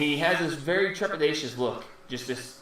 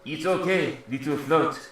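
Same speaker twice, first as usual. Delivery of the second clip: mimicking creature voice. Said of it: "he looks at you, and he goes".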